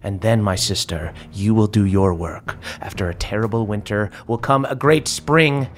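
lightly voiced cold sorceress declaring a new order; a hint of a grand, cold villain; villainous sister speech. GM voicing Herodesia to her sister, cold and grand.

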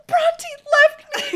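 slow, high, laughing fake sob; mock crying. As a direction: wail it like the drunk friend, half laughing. Imitating drunk crying friend.

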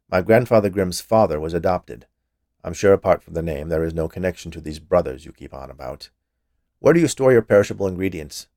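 a hint of a curt official; lightly voiced impatient inspector. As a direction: dismiss the topic and get back to business.

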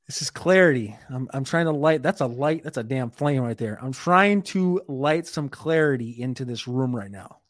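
talking round a dip in the lip; words through a mouthful of pouch; chewing tobacco. Real, not acted. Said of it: "put the grind in your mouth".

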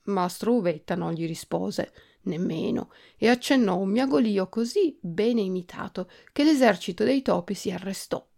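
usual speaking voice

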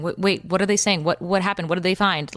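retelling puzzled, insistent questions; confused questioning. Retold or imitated. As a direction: fire off questions, trying to catch up. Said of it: "I didn't really understand what was going on".

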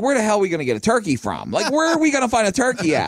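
fast, rising mock outrage; exasperated dad. Father late on Christmas Eve, fast exasperated protest. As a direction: play the fed-up father.

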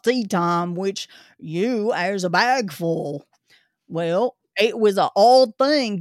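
put-on gruff old Cockney zookeeper; Cockney accent. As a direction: grumble it like a London keeper. Zookeeper continues.

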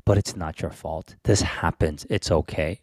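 gentle parental comforting, unhurried; soothing reassurance. Pretend. Parent sits daughter down to say it's not her fault, soothing. Modelled comforting talk to child.

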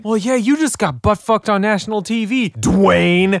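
lightly voiced smug hero; imitating the movie hero. Fan quoting Bruce Willis's favourite line, lightly imitated. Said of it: "it's just the way he says it".

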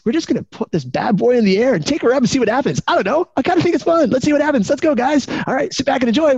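a wild pilot thrilled to skip safety; reckless spunky pilot. Acted. Pilot to passengers bragging about skipping checks, giddy.

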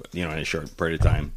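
quick hushed whisper. Real, not acted. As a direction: whisper it fast under your breath. Whispered aside.

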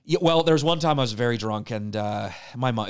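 ordinary delivery

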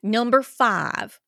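slow, deliberate Southern drawl; Georgia accent. Acted. Co-host reading Ten Commandments aloud, slow Georgia accent. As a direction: intone each item slowly in a Georgia accent. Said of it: "through the Georgia accent".

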